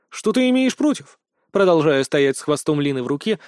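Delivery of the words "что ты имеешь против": angry question. Acted. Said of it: "злобно спросил я".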